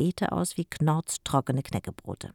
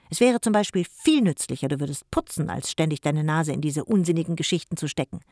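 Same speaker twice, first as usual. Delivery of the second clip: a louder, preachy scold; lecturing uncle; 4 dB louder than usual. Acted. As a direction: lecture her about useless books. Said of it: "seiner Predigt".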